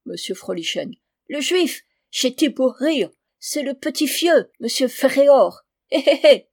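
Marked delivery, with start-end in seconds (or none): 1.3-6.5 thick German accent, French words softened and devoiced. German recruiter coaxing father Thomas, in a thick German accent. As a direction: play a German gentleman bargaining in heavy German-accented French.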